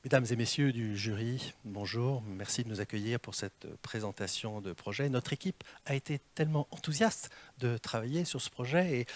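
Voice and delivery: lightly voiced dull jury opener; boring stock opening. Shown as a demonstration. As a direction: recite the stock opening by rote. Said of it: "je vais commencer par une mauvaise nouvelle". (récitation d'une accroche banale, sans conviction)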